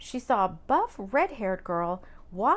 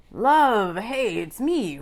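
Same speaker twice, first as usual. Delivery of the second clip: out of breath; 8 dB louder, much slower than usual. A narrator's reading. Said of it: "Rowan sounded out of breath".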